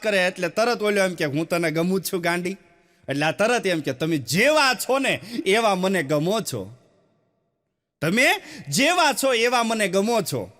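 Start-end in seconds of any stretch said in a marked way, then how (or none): 1.2-2.6 sweet talk. Acted. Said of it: "આખો tone અલગ હોય". 3.9-10.5 slow and syrupy, a courting bride; sweet, slow fiancée talk. Acted. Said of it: "લગ્ન પેલા આખો tone અલગ હોય".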